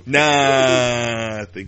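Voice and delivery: loud incredulous repeat; shouted echo. Real, not acted. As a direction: bark the word back. Echoing with a shout.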